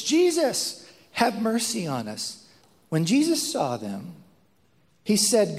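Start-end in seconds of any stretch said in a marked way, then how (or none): 0.0-2.5 mild mock yell. Lepers calling to Jesus from the distance, mock yell. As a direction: lift the name high, then ease off. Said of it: "they just yell from the distance".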